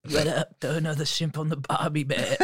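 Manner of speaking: put-on Australian goat, light Aussie accent; a goat talking Aussie slang. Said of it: "Do you know what the goats sound like in Australia?".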